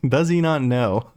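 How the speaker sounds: slow mock disbelief, laughing midway; imagined baffled expert. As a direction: play an expert appalled at a clueless player. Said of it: "somebody who plays Enhancement Shaman on a really high level".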